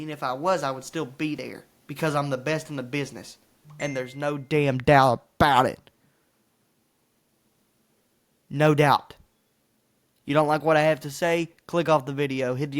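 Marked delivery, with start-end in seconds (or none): 3.8-9.1 loud certainty. Real, not acted. Closing boast about being best.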